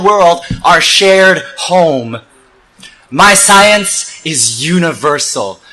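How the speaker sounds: deliberate rhythmic recitation; spoken-word poem. Acted. Speaker declaring what science is, measured poetic oratory. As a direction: recite in weighted, cadenced phrases.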